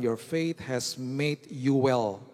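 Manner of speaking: slow, deliberate English verse; reading scripture slowly. Shown as a demonstration. Preacher quoting the NIV verse to the church, slow and deliberate. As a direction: lay out each word of the NIV line. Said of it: "Kalau saudara baca N I V".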